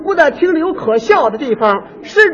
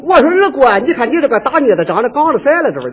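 put-on Jinan accent. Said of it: "到了山东济南是这样说".

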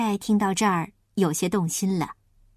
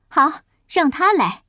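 emphatic opening burst, settling into firm insistence; a mild cry of command; mildly shouting Mrs. Pig; 3 dB louder than usual. Acted. Mrs. Pig orders the rats bitten, mildly shouting. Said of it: "猪太太喊叫说".

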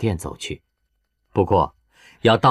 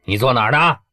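hostile question; 4 semitones higher, faster than usual. Acted. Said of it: "语气不善地问他".

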